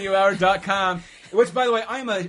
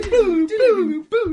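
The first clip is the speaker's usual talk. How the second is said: mock crying; 10 dB louder, much slower than usual.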